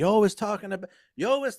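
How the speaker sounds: put-on Irish-English accent. Retelling how Becky Lynch finished her line, in a put-on Irish-English accent. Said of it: "I'm trying to do like two different accents here".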